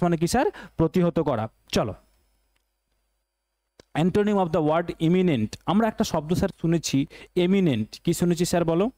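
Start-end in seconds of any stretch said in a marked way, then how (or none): 3.9-5.5 slow reading. Shown as a demonstration. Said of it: "teacher reads question slowly".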